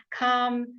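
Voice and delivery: calm as kahm, no l sound; silent l calm. Shown as a demonstration. Teacher confirming answer to students. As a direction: leave the l out of calm. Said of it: "the L was left out".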